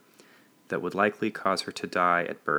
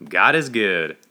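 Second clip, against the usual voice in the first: loud answering yell; yelled back; 7 dB louder, slower than usual. A narrator's reading. Congregation finishing the guest's call, yelled back. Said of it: "they yelled back".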